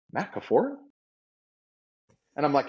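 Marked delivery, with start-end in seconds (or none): 0.1-0.7 high, surprised recognition of a name; a nurse recognising a patient, surprised; surprised question. Retold or imitated. Nurse recognizes him, retold.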